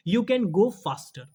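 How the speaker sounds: slow, deliberate reading of the corrected sentence; slow model sentence. Shown as a demonstration. Teacher reading the corrected sentence to students, slow and clear. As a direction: read it out slowly word by word. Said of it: "faster कर देंगे".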